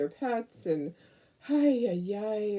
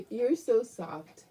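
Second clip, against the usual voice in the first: slow, tender cooing; 4 semitones higher, much slower than usual. Acted. Cooing at dog, slowly.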